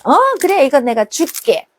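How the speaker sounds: a mother happily agreeing; lightly voiced mother; cheerful mom. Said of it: "그러면 어떻게 해요?".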